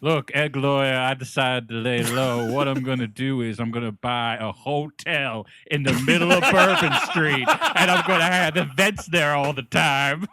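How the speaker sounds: mock Southern accent, laughing near the end; exaggerated Southern accent, barely holding back laughter; Foghorn Leghorn drawl. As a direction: play the scheming client in a hammed-up Southern accent. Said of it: "talking like Foghorn Leghorn".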